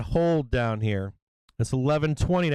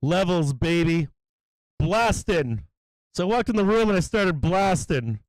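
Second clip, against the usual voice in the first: fired-up hype; 4 semitones higher than usual. Real, not acted. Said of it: "I'm getting all fired up over here".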